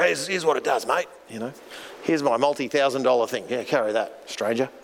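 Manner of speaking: raspy stranger. Retold or imitated. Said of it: "that real raspy voice".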